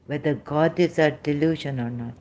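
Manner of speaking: ordinary talk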